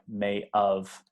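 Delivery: "may of" with have reduced to a short "of". Shown as a demonstration. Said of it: "it almost sounds like".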